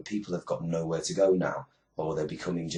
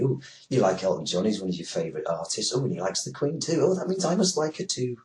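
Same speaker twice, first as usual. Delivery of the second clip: sarcastic sing-song, climbing much higher; mocking voice; 4 semitones higher than usual. Mocking the viewers Sky News wants to please, in a sarcastic fan voice. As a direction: parody a gushing fan, rising into a squeak.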